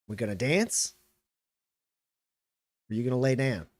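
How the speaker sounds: laid-back sheriff's challenge, long pauses; unhurried, relaxed standoff dare; extremely casual. Acted. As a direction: offer a fight with easy confidence. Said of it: "extremely casually".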